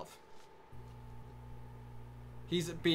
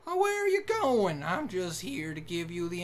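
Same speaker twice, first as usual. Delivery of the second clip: put-on stereotypical Southern accent; 3 semitones higher than usual. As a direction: call out in a hammed-up country accent. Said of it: "really offensive Southern accent".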